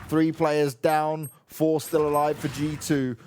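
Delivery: steady caster calling the round; live play-by-play. Acted. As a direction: narrate the round as it unfolds. Play-by-play casting.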